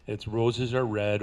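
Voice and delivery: ordinary talk, nothing marked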